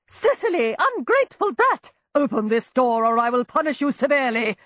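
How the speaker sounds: shrill scolding threat; angry threat. A narrator's reading. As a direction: threaten her through the door. Aunt threatening through locked door.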